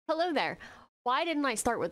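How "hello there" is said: a light, higher mock of the famous hello there; tossing off the movie line with a playful lift; Obi-Wan greeting. Reacting to Kenobi, he lightly quotes Obi-Wan's greeting. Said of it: "I should have started off with hello there".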